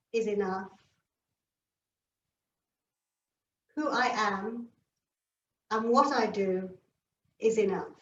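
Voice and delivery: soft, unhurried meditative voice; calm yoga guidance. Real, not acted. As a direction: settle the class gently, leaving long pauses. Opens yoga class with calm affirmation.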